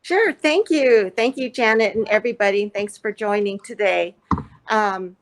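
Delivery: muffled through a face mask; full face dive mask. Real, not acted. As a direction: talk through a covering mask. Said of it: "apologize me speaking through the mask".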